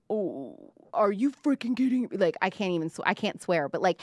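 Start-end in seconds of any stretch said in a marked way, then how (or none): 0.1-2.1 mock host rant. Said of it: "the private chats that these people have is like".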